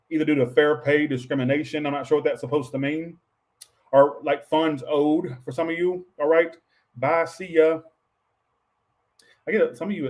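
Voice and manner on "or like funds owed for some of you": ordinary talk, nothing marked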